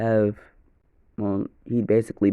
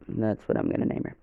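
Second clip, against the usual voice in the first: quick voiceless aside; hushed decision; whispered aside; 6 dB quieter, faster than usual. Real, not acted. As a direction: mutter it fast to yourself. Muttered aside while deciding.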